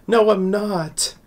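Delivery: high, drawn-out mock protest; protesting denial. Acts Mora's bashful denial.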